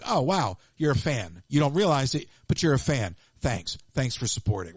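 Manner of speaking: low, sarcastic fake gratitude; mock a hater, thanking them dryly; sarcastic mock thanks. Mocking trolls online, dry sarcastic thanks. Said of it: "I'm like".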